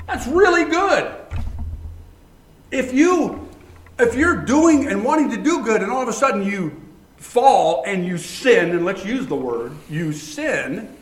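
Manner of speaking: high, loud preaching build; rising excitement. Real, not acted. Preacher fires up the congregation, loud and high. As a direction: drive the point home with fervor.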